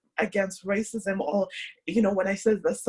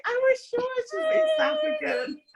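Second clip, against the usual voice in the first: a much higher squealed exclamation; mock surprise. Interviewer retelling her own reaction, high squealed mock surprise. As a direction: blurt it out like a sudden realisation. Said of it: "'cause I was like".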